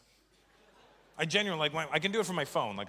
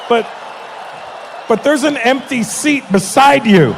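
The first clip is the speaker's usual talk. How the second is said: much higher and louder, slow; loud call-out; 11 semitones higher, 16 dB louder, slower than usual. Real, not acted. To the crowd about Manav's wife, a slow booming call-out. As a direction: announce it to the whole room. Pointing out empty seat loudly.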